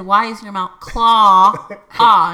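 "claw" slow, stretched to an open ah; open-vowel correction. Retold or imitated. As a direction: exasperatedly demonstrate "claw" with a loud Ah. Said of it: "And I said".

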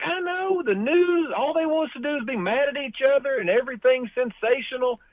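high-pitched mock female voice; imitated lady. Lady grumbles about the news, imitated in high voice. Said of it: "And she's like".

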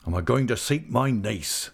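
a hint of a grief-struck seaman vowing; grieving old fisherman. Old uncle vowing to Ham he'll find his niece, lightly voiced and resolute. Mr. Peggotty vows to seek niece.

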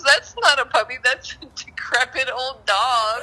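imitated incredulous correction, laughter creeping in; amused mock objection. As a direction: retell a teasing protest through giggles. Husband's mocking objection retold, laughing.

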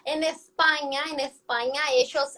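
Spanish as spoken in Spain; Spain accent. Shown as a demonstration. Latin American Spanish speaker mimicking Spain, Castilian accent. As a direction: imitate Castilian Spanish with a lisped c. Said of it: "hacen acento así".

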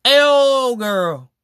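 high, loud incredulous whine; shocked disbelief. Retold or imitated. Listener shocked at the cheated-on friend, high, loud, incredulous. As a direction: stretch out a whole girl in disbelief. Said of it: "I'm sitting there like".

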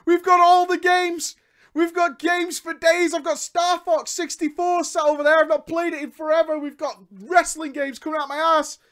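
high, loud, strained list of games; high frustrated rant. Real, not acted. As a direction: keep the pitch up as you rant.

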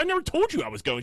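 high, loud protest; indignant shout. Retold or imitated. Son denying to mom he was going, high indignant shout. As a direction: shout the denial back.

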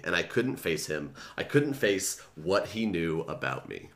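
reading a novel passage aloud, first person; story reading. Acted. Reads the book passage aloud.

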